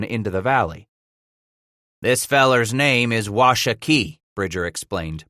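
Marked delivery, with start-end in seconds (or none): 2.0-4.2 "Washakie" with weight on its final syllable; emphasis on last syllable. A narrator's reading. Trapper introducing the leader, last syllable of "Washakie" stressed. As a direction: lean on the end of "Washakie". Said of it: "putting the emphasis on the last syllable".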